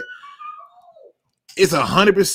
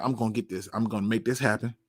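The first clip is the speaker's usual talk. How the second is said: self-pep talk; 6 semitones lower, 10 dB quieter, faster than usual. Retold or imitated. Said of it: "I'm like".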